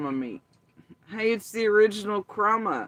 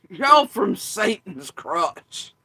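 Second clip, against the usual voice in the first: mock demon pronouncement; 9 dB louder, much slower than usual.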